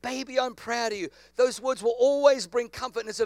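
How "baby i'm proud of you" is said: a lightly voiced mama, hushed and tender; gentle mama voice. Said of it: "when mama says".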